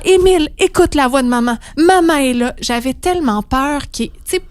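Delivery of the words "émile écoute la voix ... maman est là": put-on crying out to baby. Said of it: "Et là, je crie, puis je pleure".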